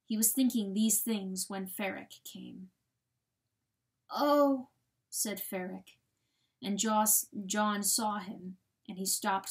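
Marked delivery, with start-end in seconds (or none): 4.1-4.7 higher, louder pained oh; a pained cry of discovery; stricken surprise. A narrator's reading. Coyote coming upon his dead family, stricken.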